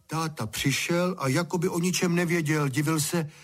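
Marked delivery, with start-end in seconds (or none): none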